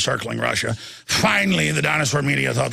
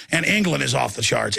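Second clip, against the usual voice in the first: ordinary delivery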